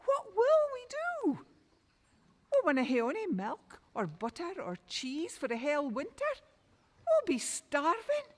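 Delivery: high, fretful lament; mother fretting over the winter ahead; distressed wail. Acted. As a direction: wring your hands and fret aloud. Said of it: "the mither was in a terrible state".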